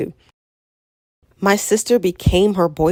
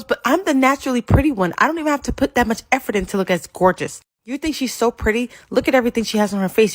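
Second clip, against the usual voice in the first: bragging sister; 5 semitones higher than usual. Retold or imitated. Sister voiced, bragging at the guy.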